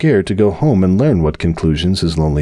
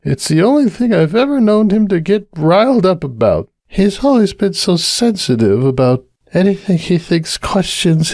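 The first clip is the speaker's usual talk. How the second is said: high, tipsy, worried mare voice; Cupcake confiding; 10 semitones higher than usual. Acted. Cupcake confiding her fears to the bartender, high and worried. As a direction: pour out the worry, a little tipsy.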